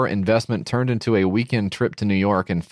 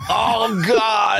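laughing; 12 semitones higher than usual. Real, not acted. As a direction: crack up while you say it. Cracking up at the video.

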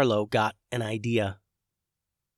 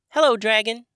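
tiny high squeaky voice; squeaky sprite voice; 11 semitones higher, 8 dB louder than usual. A narrator's reading. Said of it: "squeaked the sprite".

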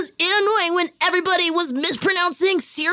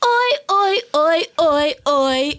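mock British accent. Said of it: "I am British now".

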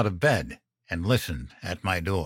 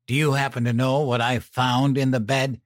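harsh and tight; 4 semitones higher, 3 dB louder, faster than usual. Acted. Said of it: "Mom's voice sounded harsh and tight".

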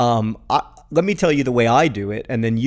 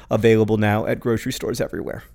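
ad read; faster than usual. Pretend. Mock sponsor tag after LaCroix.

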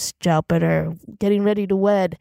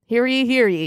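town crier; 4 semitones higher than usual. Acted. Beef ends speech calling out.

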